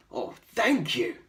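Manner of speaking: grateful goat. A narrator's reading. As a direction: thank him as the goat. Goat thanks George.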